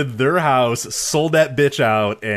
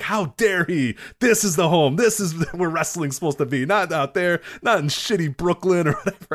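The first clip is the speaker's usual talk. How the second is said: mildly indignant, higher-pitched imitation; retold rant; 4 semitones higher than usual. Co-host imitating the usher defending the Garden, mock indignant. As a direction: act out an affronted fan, half laughing. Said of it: "he's just ranting about how".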